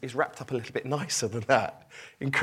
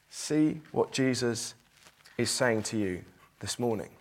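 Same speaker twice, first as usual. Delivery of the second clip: pleading tone; 2 semitones lower than usual. Shown as a demonstration. Preacher rereading the same verse as a tender plea. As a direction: read it gently, begging them to listen. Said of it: "Exactly the same words, different tone".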